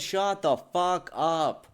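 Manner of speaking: slow, drawn-out angry dismissal; exasperated order. Real, not acted. Answering the whiners he mocked, slow exasperation. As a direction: stretch each word in irritation.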